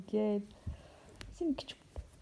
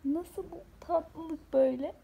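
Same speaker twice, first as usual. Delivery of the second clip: higher, slow and tender; doting coo; 4 semitones higher, slower than usual. Real, not acted. Mother cooing slowly at her sleepy pet. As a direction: melt over the pet's cuteness.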